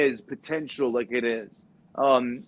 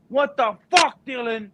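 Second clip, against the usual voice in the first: high-pitched mock rant; hammed-up betrayed father; dad going crazy; 10 semitones higher, 3 dB louder than usual. Dad ranting at son in school, hammed-up anger. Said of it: "he goes".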